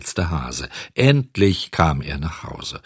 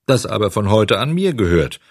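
gruff; 2 semitones higher, 3 dB louder than usual. Acted. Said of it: "ergänzte Bengele grob".

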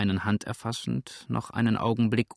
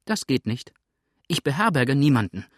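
firm refusal, rising louder; brisk, raised-voice rebuff; quick call; 4 semitones higher, 5 dB louder than usual. Acted. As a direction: turn the caller away promptly. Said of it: "rief Misses Bridleford schnell".

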